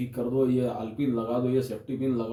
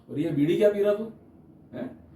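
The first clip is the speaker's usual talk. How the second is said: higher, sharp telling-off; mock scolding; 6 semitones higher than usual. Comic telling-off of a bidi smoker in the crowd.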